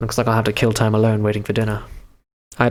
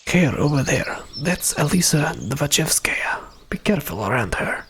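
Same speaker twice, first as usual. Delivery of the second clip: whisper; 2 semitones higher, 3 dB quieter than usual. Acted. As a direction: warn them under your breath. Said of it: "he spoke in whisper".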